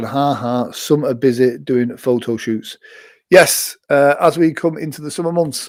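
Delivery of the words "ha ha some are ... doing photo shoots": plain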